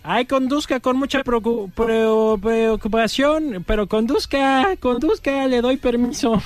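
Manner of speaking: put-on high, slurred drunk voice; sloshed drunk rambling high. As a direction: play the tipsy drunk, drawn out.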